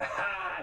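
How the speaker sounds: imitating a sly devil laugh; mock the rapper's devilish chuckle. Rapper leaning back, imitated devil laugh. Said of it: "that devil laugh that he has".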